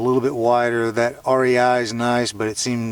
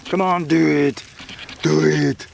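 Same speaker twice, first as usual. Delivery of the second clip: louder, higher put-on goading voice; mock egging-on; 4 semitones higher, 5 dB louder, slower than usual. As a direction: goad yourself into it, playfully forceful. Eggs himself on in put-on voice.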